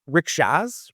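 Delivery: Rickshaws in a mock Australian accent, Shores blended to shaws; bad Australian accent. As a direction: imitate an Australian local saying Rickshaws. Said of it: "it's a very bad Australian accent right there".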